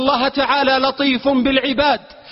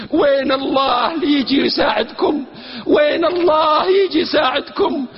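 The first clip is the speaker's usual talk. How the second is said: retold taunting shout, only mildly raised; mocking yell. Preacher retelling a soldier taunting captured villagers, mild mock yell. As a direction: jeer it like a scornful soldier, half-hearted. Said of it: "قال صارخا مستهزئا".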